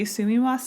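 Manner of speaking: "Sumimasen" with even syllables; "Sumimasen" spoken as a native would; Japanese pronunciation. Shown as a demonstration. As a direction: say "Sumimasen" the Japanese way, soo-mee-mah-sen. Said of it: "in Japanese".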